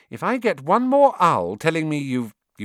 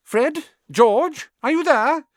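much higher calling voice; calling from far off; 6 dB louder, slower than usual. Acted. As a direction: call in from outside the train. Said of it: "a voice came floating in".

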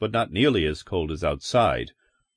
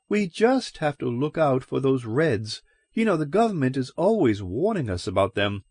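higher, earnest small-town landlady; wary landlady; 6 semitones higher than usual. A narrator's reading. Landlady explaining Red suspicions to stranger, raised earnest voice. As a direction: warn him, half apologetic.

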